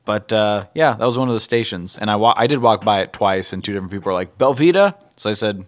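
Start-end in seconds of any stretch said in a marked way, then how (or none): 4.3-4.9 offering voice. Retold or imitated. Staff offering crackers.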